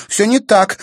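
loud, high, stress on не; heated denial. A narrator's reading. Sister insisting to brother, heated. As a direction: insist it's not so.

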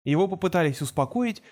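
ordinary delivery

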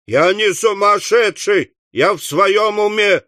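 high-pitched whine; high, plaintive denial; whimpering protest. Acted. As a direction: whine it like a wronged boy. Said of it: "захныкал жирный парень".

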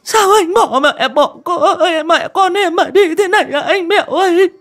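high, loud tearful wail; choked sobbing. A narrator's reading. Pregnant widow cries over her husband's coffin, sobbing. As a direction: cry out to the dead husband through sobs. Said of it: "cũng nghẹn ngào".

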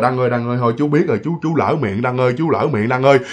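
a hint of a scared old man bowing and apologising; mild, hushed plea to the ghost for forgiveness; frightened pleading. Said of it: "ổng xá thế rồi".

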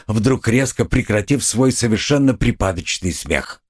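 ordinary delivery, nothing marked

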